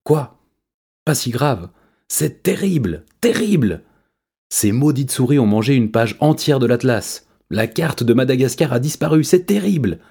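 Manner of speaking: very high, panicked cat voice; frantic insisting cat. A narrator's reading. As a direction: shriek it in distress. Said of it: "insista Je sais tout".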